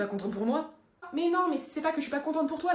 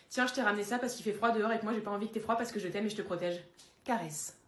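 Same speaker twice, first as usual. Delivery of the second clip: dog's voice; 3 semitones lower, 4 dB quieter than usual. Acted. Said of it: "dog's inner voice".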